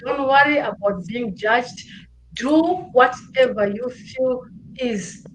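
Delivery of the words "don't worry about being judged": emphatic repeat. Shown as a demonstration. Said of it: "I will repeat that".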